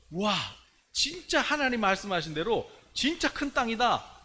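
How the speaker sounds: high, emphatic proclamation; faith-filled declaration. Acted. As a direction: declare it with acted conviction. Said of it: "이렇게 믿음으로 선포한 사람하고".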